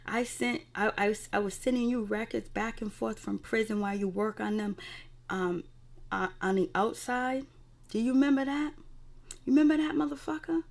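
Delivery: jab each question at him; retold furious confrontation; angry Cookie.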